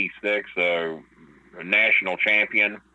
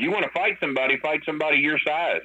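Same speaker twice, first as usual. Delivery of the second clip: higher-pitched mock confrontation; retold challenge; 8 semitones higher, faster than usual. Wrestler challenging Brock to pick on someone his size, confrontational. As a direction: act out squaring up, without shouting.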